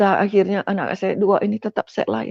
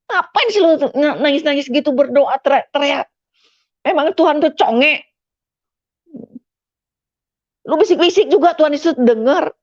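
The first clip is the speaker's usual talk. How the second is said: raised, higher mocking scold; imitating angry husband; 4 semitones higher than usual. Husband scolding wife and kids for praying, angry mocking scold.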